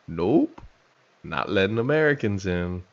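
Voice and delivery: a hint of an attempted West African accent; aborted West African accent. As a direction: slip briefly into a West African accent, then back off. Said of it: "What was that accent?".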